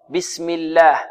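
الله with a thin, clear L; light lam in الله. Shown as a demonstration. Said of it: "جاء قبلها مكسور ترقق". (الله بلام مرققة)

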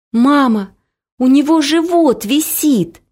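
a light retort shouted back; yelling back. A narrator's reading. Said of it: "кричала я в ответ".

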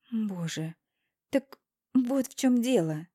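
sighing, slow realization. Acted. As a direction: say it on a sigh. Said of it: "вздыхаю я".

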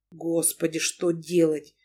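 a touch of a despairing groan; mild groan. Acted. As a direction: moan it out, half under breath. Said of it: "Громко простонал Павел".

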